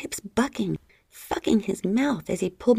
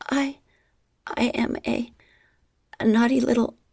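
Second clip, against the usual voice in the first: high broken stammer; high hesitant stammer; halting; 5 semitones higher, 4 dB louder than usual. A narrator's reading. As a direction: stumble over the words, high. Heroine stammering admission.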